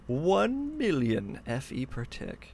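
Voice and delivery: slow, savoured "One million"; awed. Real, not acted. Streamer marvelling at the power output, slow awed. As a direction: draw it out in amazement. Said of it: "look at that".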